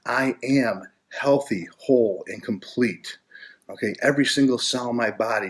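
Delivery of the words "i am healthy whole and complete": affirmation voice. Shown as a demonstration. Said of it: "Start to talk like this".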